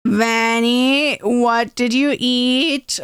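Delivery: slow, drawn-out questioning; suspicious dog-owner tone. Retold or imitated. Brother to little Vanny over the packet, slow suspicion. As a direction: brother lightly voiced like a wary pet owner. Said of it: "he goes full on".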